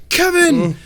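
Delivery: high, loud imitation of a screaming mom; mock scream. Retelling the mom's cry for her son, mock scream. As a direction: yell it out like the movie mom. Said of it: "when the mom screamed".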